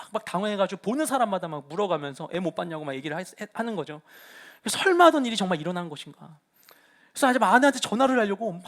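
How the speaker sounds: normal talking voice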